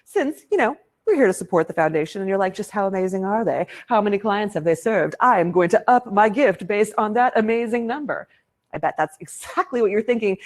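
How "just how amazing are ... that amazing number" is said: lightly put-on donor voice; weird voice. Host voicing what the audience is thinking, mildly weird voice. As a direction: play an imagined keen donor, slightly odd. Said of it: "saying it exactly in that weird voice".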